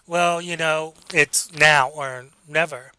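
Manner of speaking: slow, halting demo of hesitation; hesitant hedging. Shown as a demonstration. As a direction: drag it out as if unsure. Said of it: "you have the hedges and you're hesitant".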